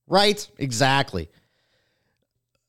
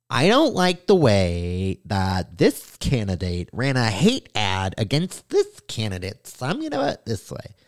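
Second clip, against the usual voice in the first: young Asian boy impression; 3 semitones lower than usual. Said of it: "That's my impression of a young Asian boy".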